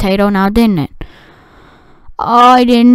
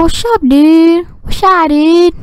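high, slow playful dude voice; playful higher dude greeting; goofy high greeting; 6 semitones higher, slower than usual. Pretend. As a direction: greet him like a surfer bro. Greeting game character playfully.

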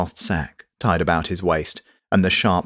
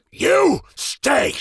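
high, sharp call of command. Acted. Mage calls an order to the rearmost golem. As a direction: snap the order across the room.

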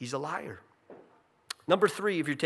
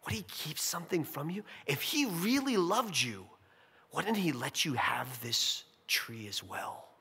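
insinuating Satan. Retold or imitated. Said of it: "He's saying".

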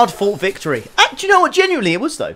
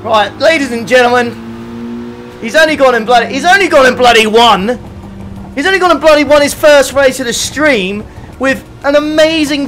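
loud, higher-pitched showman's announcement; mock triumphant sign-off; 7 semitones higher, 7 dB louder than usual. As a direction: proclaim it to the whole lobby, hamming it up. Mock sign-off after winning first race.

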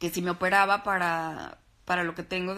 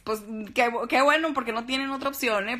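higher and louder, punching bueno; playful teasing; 5 semitones higher, 5 dB louder than usual. Real, not acted. Host teasing viewers who like her glasses, playful and louder. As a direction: tease them that they have no choice.

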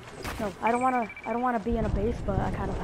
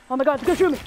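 higher, louder panicked cry of alarm; 4 semitones higher, 4 dB louder, much faster than usual. Real, not acted. Player under fire yelps in panic, higher and louder. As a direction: yelp as the enemy takes aim.

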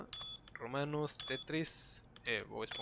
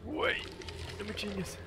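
shocked outburst; 6 semitones higher than usual. Real, not acted. Frustrated gamer reacts to game.

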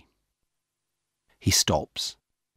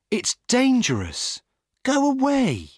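higher, a little louder, read-aloud shout; 4 dB louder than usual. A narrator's reading. Young woman chases the jogger away, high mock shout. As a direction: shoo him off with a high pitched cry. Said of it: "Then a young woman shouts at him".

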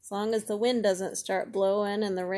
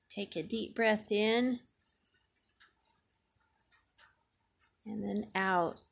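guided breathing; 4 dB quieter than usual. Shown as a demonstration. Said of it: "we should try some of that yoga breathing".

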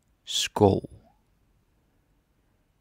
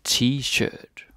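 "T-shirt" said with a Danish accent; Danish-accented model pronunciation of T-shirt; 4 semitones higher, 4 dB louder than usual. Shown as a demonstration. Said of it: "Just say it with a Danish accent".

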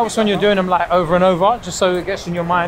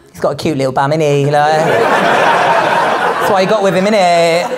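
gym guy; 2 semitones lower than usual. Retold or imitated. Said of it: "that's how gym guys speak".

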